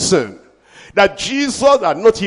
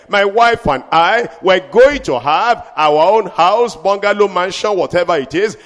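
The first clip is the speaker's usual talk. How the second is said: preaching at full force. Acted. Preacher declaring victory to the church, full force. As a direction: proclaim it over the congregation.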